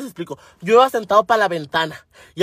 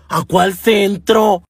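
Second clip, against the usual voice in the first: slow, louder astonished question; 5 dB louder, much slower than usual. Retold or imitated. Señora baffled by talk of downtown, astonished. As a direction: draw it out in mock disbelief.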